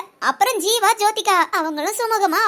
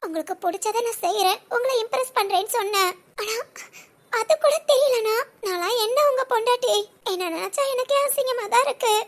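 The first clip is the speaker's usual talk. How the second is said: quiet sad lament; 3 dB quieter than usual. Acted. Wife laments softly to husband.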